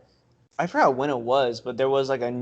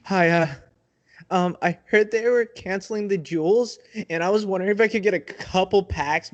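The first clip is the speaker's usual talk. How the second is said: pleading caller, pitched up; desperate customer; 3 semitones higher than usual. Pretend. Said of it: "let's play it out".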